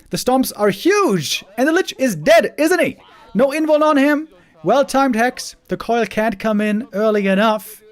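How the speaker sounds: high, loud hyped commentary; excited play-by-play. Real, not acted. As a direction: call the fight at full hype. Fight play-by-play climax.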